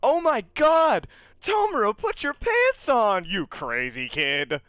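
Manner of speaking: hammed-up, very loud high-pitched heckling; slow, stretched yells from a rowdy bunch; crowd calling out. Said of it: "a bunch of people being like".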